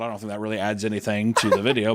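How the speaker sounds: normal talking voice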